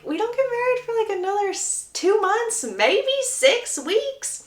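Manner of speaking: lightly voiced fiancée hedging; voiced Hyacinth. Hyacinth's reply voiced high.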